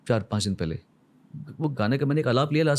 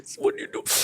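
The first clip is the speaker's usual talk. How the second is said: breathy near-whisper, asking gently; barely voiced, imitating the promoter leaning in; a whispered What do you do; hushed promoter quote; much slower than usual. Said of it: "तो मेरा promoter दर्शन जी ने उसे पकड़ा मुझे".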